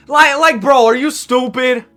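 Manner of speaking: real stunned outrage; incredulous outburst. Real, not acted. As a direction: react like the offer is an insult. Outraged at AI trade demand.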